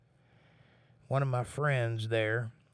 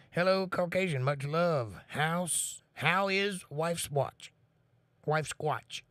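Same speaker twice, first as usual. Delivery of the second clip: high, very slow put-on Inuit accent; 6 semitones higher, slower than usual. Streamer voices a chat message in a put-on high, slow Inuit accent. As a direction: stretch each word out high, mock Inuit voice. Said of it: "You sound like an Inuit".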